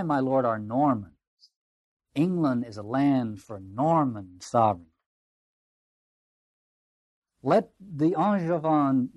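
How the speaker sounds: slow, declamatory lord, stretched stresses; proud Norman baron. Acted. Baron urging Thomas to side with England, slow proud declamation. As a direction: make a deliberate case, pausing weightily.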